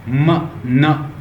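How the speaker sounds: "म, न" hummed through the nose, one by one; nasal sounds. Shown as a demonstration. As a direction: let "म" and "न" resonate in the nose. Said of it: "जैसे मेरी नाक से sound आ रही है". ("म, न" नाक से, अलग-अलग)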